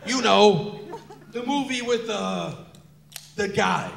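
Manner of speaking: lightly voiced old dad groping for words; loud start, then halting old father; a hint of forgetful old man. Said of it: "that's my old voice".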